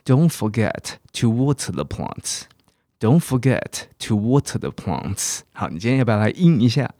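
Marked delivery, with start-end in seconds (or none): 0.0-5.4 "water" with a crisp t and "plants" with a long ah; slow British model sentence. Shown as a demonstration. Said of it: "别忘了浇这些植物哦".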